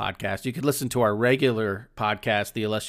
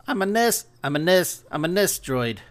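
Kiwi accent; 5 semitones higher than usual. Shown as a demonstration. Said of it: "I did not have time to perfect my Kiwi accent".

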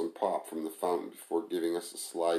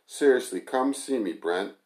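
calling out; 4 semitones higher, 5 dB louder than usual. Acted. Tamara calls over to Brent.

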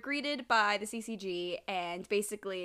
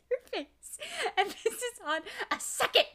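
high mocking echo through laughter; teasing; 14 semitones higher, 3 dB louder than usual. Real, not acted. Teasing co-host about his face, high laughing echo. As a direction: echo him back, teasing and amused.

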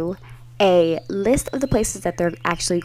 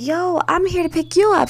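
high exasperated; 10 semitones higher than usual. Retold or imitated. Retold reply to drunk sister.

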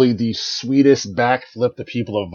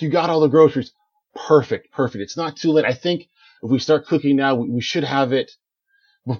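cheerful cook; 2 semitones higher than usual. Acted. GM voices Richard in quotes.

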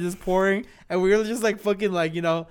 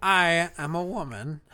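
little voice; slower than usual. Pretend. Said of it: "you're doing that fucking little voice".

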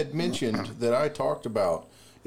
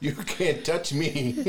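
snake voice; 4 semitones higher, slower than usual. Pretend. Voicing the snake, drawn out.

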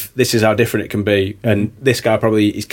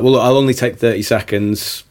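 late night DJ voice; 2 semitones lower than usual. Shown as a demonstration. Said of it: "really drop the voice down".

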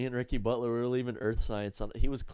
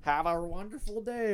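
a touch of a cheery morning announcer; slow, higher, sing-song mock announcement; imitating announcer; 7 semitones higher than usual. Mimicking the school news teacher, lightly cheery. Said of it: "Mister Mooney over there".

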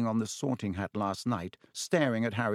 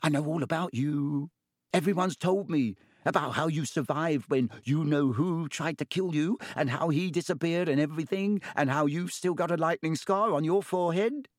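put-on eager boy; 6 semitones higher than usual. A narrator's reading. Colin gushing to Harry.

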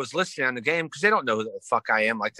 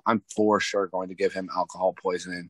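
laughing mock threat; 6 semitones lower than usual. Retold threat, laughing shout.

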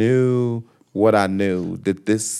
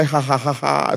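catchphrase laugh. Retold or imitated. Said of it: "people want you to say".

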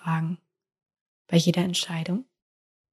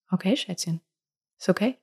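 tender acceptance; 5 dB quieter, faster than usual. Pretend. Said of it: "dann sagt es".

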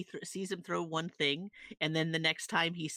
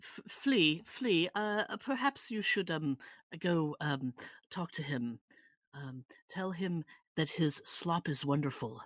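urging in character; 2 semitones higher than usual. Acted. Stu urging Flea in character.

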